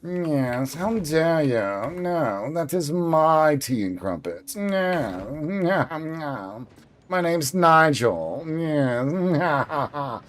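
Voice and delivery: lightly voiced posh Brit, slow and proper; a hint of an upper-class Englishman. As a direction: play a mildly snooty English gent. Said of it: "I'm very posh, very proper".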